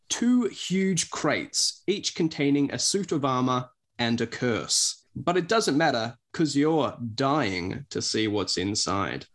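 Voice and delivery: lightly dramatic story blurb read; measured storytelling with teasing pauses. Acted. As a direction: read it out like a spooky trailer, lightly. Reads the blurb aloud.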